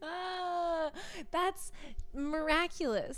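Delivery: breathy awestruck whisper; awed whisper. Real, not acted. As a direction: whisper it in wonder.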